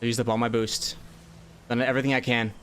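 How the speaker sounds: nervous, heart racing; jittery under pressure; adrenaline shakes. Real, not acted. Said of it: "My heart is racing".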